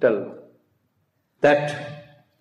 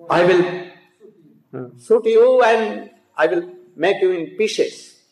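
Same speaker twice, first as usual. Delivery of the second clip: loud furious threat of a grieving king; angry threat; 4 semitones higher, 3 dB louder than usual. Acted. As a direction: threaten loudly, bow in hand. Ram raging, taking his bow.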